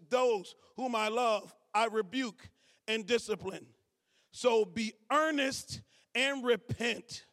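slow, weighty reading of the verse; slow scripture reading. Real, not acted. Pastor reading Revelation to church, slow solemn. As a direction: read it deliberately, word by word.

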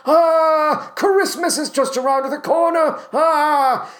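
put-on worked-up crazy old man, high-pitched; hammed-up batty impression, cries pitched high; Forrest Whitaker. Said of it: "he gets a little bit more worked up".

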